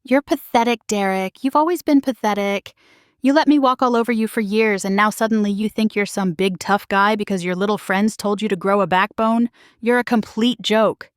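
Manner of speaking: wife ranting at her husband in a fight; shrill rant. Acted. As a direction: tear into him with scorn. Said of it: "my voice getting louder and more shrill".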